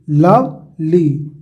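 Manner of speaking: "लवली" very slowly in two sounds, लव, then ली; long pause between लव and ली in "लवली"; split into syllables. Shown as a demonstration. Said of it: "दो sound है ना".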